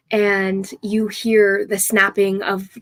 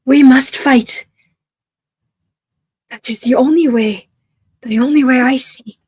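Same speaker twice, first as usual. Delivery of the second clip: defiant insistence; 3 semitones higher, 6 dB louder than usual. Acted. Holly defying the old chief, loud and insistent. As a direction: dig in and refuse to back down.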